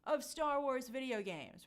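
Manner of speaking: lightly grand, slow proclamation; announcement mimicry. Host quotes Lucasfilm's announcement, slow, lightly mock-grand delivery. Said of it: "And they said".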